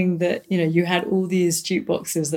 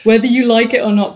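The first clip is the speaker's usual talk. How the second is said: laughing; 3 semitones higher, 6 dB louder, faster than usual. Real, not acted. Teasing laughing.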